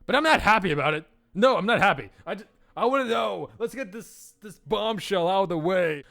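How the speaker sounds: high, quick, loud complaint; acted indignant fussing; petulant protest. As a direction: protest like a thwarted princess. Protests being kept waiting.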